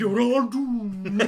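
slow, loud drawn-out doom; slow ominous raspy drawl. Retold or imitated. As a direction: stretch each word like a prophet. Repeating the crazy man slowly.

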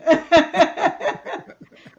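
real laugh bursting out; loud burst of laughter. Real, not acted. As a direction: laugh loudly at the silly question. Laughing at Canadian remark.

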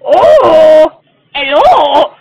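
Adam Sandler impression. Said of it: "Do your Adam Sandler impression".

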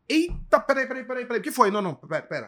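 sudden high, loud alarm, then hurried pleading; mock startled "wait, wait" in a rush; startled excited. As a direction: jolt up at a new idea and scramble to stop everything. Startled while watching the news.

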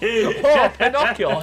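mock Japanese Pinocchio; mock Japanese accent. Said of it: "Is that it from Japan".

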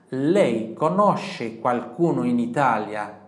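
very slow, loud, stretched; slow model question. Shown as a demonstration. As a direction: drill the question slowly. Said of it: "Ele vai te perguntar assim". (pergunta lenta e alta)

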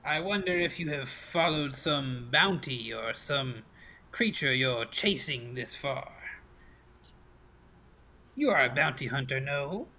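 lightly voiced old fortune teller; crackly crone. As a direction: probe the visitor as a knowing crone. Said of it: "her voice crackles like dry weeds".

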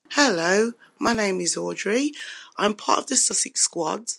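losing her voice from a cold; rough, worn-out voice; hoarse voice. Real, not acted. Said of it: "I'm losing my voice".

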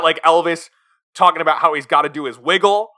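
ordinary talk

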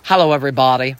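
a hint of old-Hollywood transatlantic accent. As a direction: attempt a transatlantic greeting. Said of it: "I was gonna go for a transatlantic accent there".

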